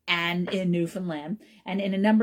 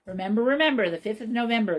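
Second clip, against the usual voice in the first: a touch louder, sing-song nursery rhyme recital; recited rhyme; 3 semitones higher, 4 dB louder, faster than usual. Shown as a demonstration. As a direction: recite it like a children's chant. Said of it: "Here it is".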